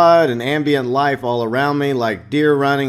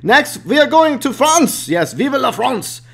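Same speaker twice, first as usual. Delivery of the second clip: excited; 11 semitones higher, 4 dB louder than usual. Acted. Cheery French flourish.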